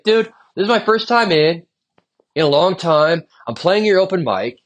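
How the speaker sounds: mildly hammed-up outrage at bartender over water; indignant rant. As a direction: vent at the bartender, mock-outraged. Retold rant at stingy bartender.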